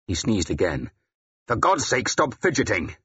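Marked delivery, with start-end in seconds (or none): 1.5-3.0 higher-pitched, exasperated reprimand; testy outburst, mildly shouted; irritated shout. Acted. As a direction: scold a fidgeter, a contained shout. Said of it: "This last shout was directed at Ethelwald".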